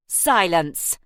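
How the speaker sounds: loud snarled command; Harry silencing Missus Beasley with a snarl. Acted. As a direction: snarl it to cut her off. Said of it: "Harry snarled".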